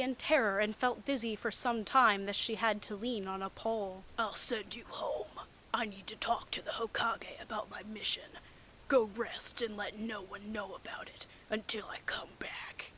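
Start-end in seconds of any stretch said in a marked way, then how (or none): 4.2-12.9 whisper. Acted. Kakashi quote whispered.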